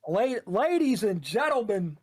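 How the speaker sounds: trying out a shoutcaster's opening; lightly projected match-caster intro; shoutcasting voice. Shown as a demonstration. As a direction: test an esports announcer voice. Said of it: "in your shoutcasting voice".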